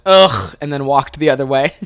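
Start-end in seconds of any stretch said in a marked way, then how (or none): 0.1-0.5 loud "ugh" of annoyance; audible disgusted groan. Retold or imitated. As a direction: groan at a dumb question. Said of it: "I audibly went".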